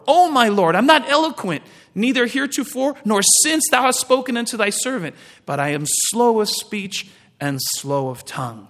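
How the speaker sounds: Moses pleading. Retold or imitated. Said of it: "And Moses said unto the Lord".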